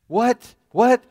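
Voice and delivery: as if straining to hear; loud repeated shout; loud shouted what. Retold or imitated. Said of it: "I said".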